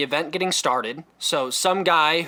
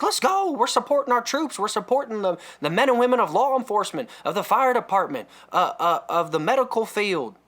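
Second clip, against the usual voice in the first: excited; 6 semitones higher than usual. Retold or imitated. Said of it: "making me excited".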